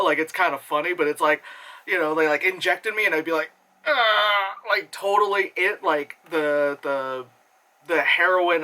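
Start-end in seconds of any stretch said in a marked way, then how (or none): 3.8-4.5 drawn-out groan, slightly high; mock blissed-out moan; imitated drugged groan. Imitating drug hitting her.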